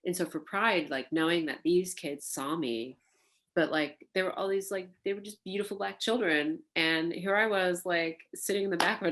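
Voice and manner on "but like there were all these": ordinary talk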